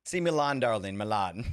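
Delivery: Edna impression. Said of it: "That's her".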